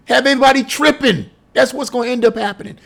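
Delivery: usual speaking voice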